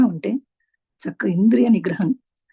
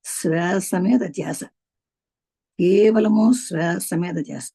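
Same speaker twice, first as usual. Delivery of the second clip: slow meditation cue; slower than usual. Shown as a demonstration. Meditation instruction, slow drawn words.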